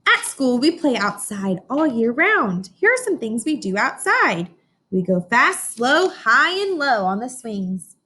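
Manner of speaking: slow, bright storybook read-aloud; reading to children. Acted. Teacher reading a picture book to her class, slow storybook voice. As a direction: read each line out slowly for the class.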